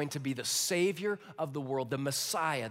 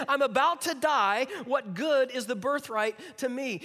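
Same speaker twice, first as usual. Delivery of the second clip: whiny Esau; 6 semitones higher, 6 dB louder than usual. Acted. Preacher re-reads Esau, more dramatic.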